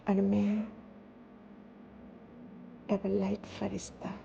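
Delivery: measured devotional telling with long pauses. Real, not acted. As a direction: let each short phrase settle before the next. Recounts a meditative vision.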